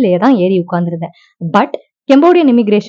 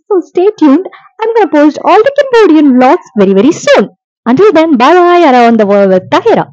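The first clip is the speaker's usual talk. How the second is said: 1 bright outro; 5 semitones higher, much slower than usual. Acted. Vlog outro sign-off to viewers.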